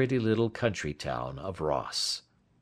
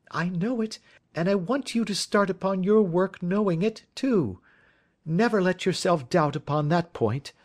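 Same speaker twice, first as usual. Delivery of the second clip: put-on higher, earnest young woman; young woman pleading for her friend, higher and earnest; Miss Turner voice; 11 semitones higher than usual. A narrator's reading. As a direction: plead his innocence, pitched up and eager.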